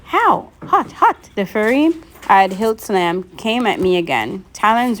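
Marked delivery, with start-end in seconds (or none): 0.0-1.3 much higher yelps of pain. A narrator's reading. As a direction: yelp as if your hands are burning. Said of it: "he yelled".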